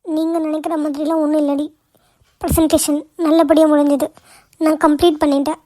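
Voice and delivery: good news told through mild tears; a touch of crying while reporting success; tearful. Acted. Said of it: "அப்ப ஏன்டி அழுவுற?". (லேசான அழுகையோடு)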